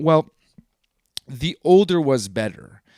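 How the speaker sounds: breathy whisper of a gamer's complaint; whispered quote. Retold or imitated. Gamer mock-whispering that the older games were better. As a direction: whisper it like a guilty confession.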